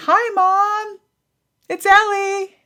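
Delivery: put-on high, bright little girl; cheerful child voice. The daughter greeting mom on the phone, high chirpy child voice. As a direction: chirp it like a happy ten-year-old.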